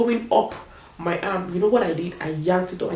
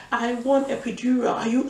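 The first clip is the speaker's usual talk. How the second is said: raised, insistent retold demand; higher pitch, scream held back; mild mock scream; 5 semitones higher than usual. Labouring patient demands an epidural, mock screaming. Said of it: "I just was screaming".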